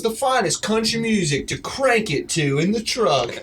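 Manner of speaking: high, bright country radio ad voice; radio ad girl. Retold or imitated. A country radio ad girl on the station, mock ad voice. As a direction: imitate a country station ad read. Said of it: "And she goes".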